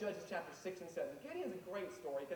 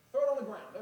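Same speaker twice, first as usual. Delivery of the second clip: commanding shout; 5 semitones higher, 8 dB louder than usual. Acted. God commands Moses in retold story.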